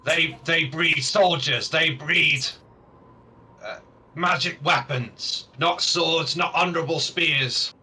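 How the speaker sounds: lightly voiced orc, insistent; a hint of an orc pressing an accusation; aggrieved orc leader. Orc warns visitors about bred weapons, lightly voiced, insistent.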